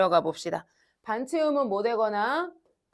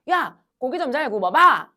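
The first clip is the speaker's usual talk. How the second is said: louder, blunt Gyeongsang dialect delivery; 3 semitones higher, 7 dB louder than usual. Shown as a demonstration. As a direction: say it like a Gyeongsang local at the grill. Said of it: "경상도 가면 얘들아".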